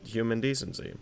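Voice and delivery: pompous 1920s oil baron, lightly voiced; oil tycoon. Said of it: "nineteen twenty oil baron voice".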